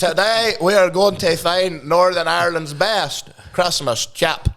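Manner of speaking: slow, laughing vlogger intro; mock food vlogger. Host parodying a Christmas food video intro, mock vlogger voice. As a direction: announce it as a parody food quest. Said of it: "Northern Irish TikTok and Instagram".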